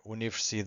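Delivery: "universidad" with a long held "da"; stress on strongest syllable. Shown as a demonstration. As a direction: stretch the "da" in "universidad". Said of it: "it's usually the strongest syllable".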